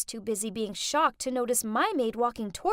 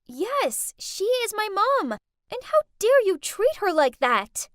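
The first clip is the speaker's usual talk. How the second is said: angry; 7 semitones higher, 6 dB louder than usual. Acted. Defends mom, crying.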